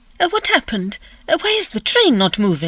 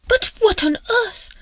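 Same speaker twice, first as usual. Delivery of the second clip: alarmed; 8 semitones higher, slower than usual. Acted. Snowbound train, lady alarmed.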